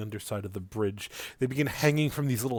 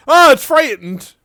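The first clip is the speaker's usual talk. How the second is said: much higher, loud panicked squeak; frightened creature squeal; 17 dB louder than usual. Acted. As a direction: shriek like a startled critter.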